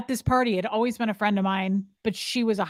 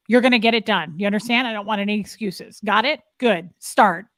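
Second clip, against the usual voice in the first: louder, curt commanding orders; Scientology command talk; 5 dB louder than usual. Shown as a demonstration. Demonstrating how Scientologists talk to family, loud curt commands. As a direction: drill it in like a strict superior. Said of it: "that's how it is".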